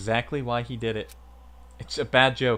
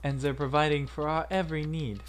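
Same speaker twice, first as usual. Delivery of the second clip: put-on higher, softer accented voice; measured analytical character; 6 semitones higher, 4 dB quieter than usual. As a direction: lay out the threat in an accented, careful voice. Voices another game character, accented.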